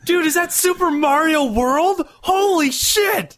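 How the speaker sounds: high, slow, over-excited imitation; mock amazement. Imitating the woman amazed by Super Mario World, mock excited. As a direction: gush it far up in pitch, stretching the words.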